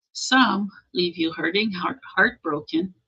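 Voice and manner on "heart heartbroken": normal talking voice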